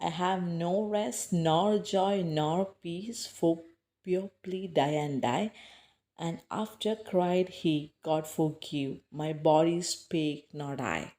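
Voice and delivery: slow recitation, leaning on "rest", "joy" and "peace"; stressed verse recitation. Shown as a demonstration. Teacher shows pupils the poem's stress pattern, slow measured recitation. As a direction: recite slowly, giving weight to each stressed syllable. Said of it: "give stress or emphasis to the syllables".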